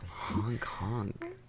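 honking like a clown; goofy clown honk; silly clown. Acted. Clown honks after clown threat.

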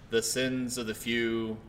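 lightly voiced, slow solemn decree; a hint of a god pronouncing judgment; godly voice. Podcaster quoting the game's warning, lightly godly. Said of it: "you hear a godly voice say".

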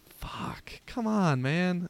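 frustrated whisper in a theater; whispered complaint. Retold or imitated. Friend in the cinema whispering his frustration. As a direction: hiss it under your breath. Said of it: "friends whispers to me".

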